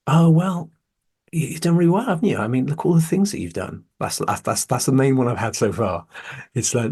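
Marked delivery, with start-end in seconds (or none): 0.1-3.8 high, bright mock praise; mimicking praising people. Mocking people who praise him, high and gushing. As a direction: parrot people gushing over his achievements. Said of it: "people will say to me".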